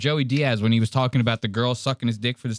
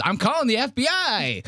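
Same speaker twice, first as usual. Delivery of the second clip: high, whiny mock plea; nervous nerd friend; 11 semitones higher than usual. Mocking the nerd friend begging to leave, high and whiny. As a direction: whimper like the friend bailing on the trip. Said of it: "He goes".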